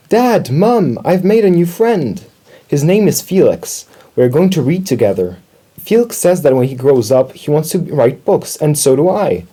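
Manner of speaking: high, eager little mouse; excited news. A narrator's reading. Little mouse tells parents happy news.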